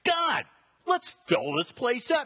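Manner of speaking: excited shouted prayer; animated prayer. Retold or imitated. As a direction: call out to God, fired up. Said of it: "I get very animated once I get moving in prayer".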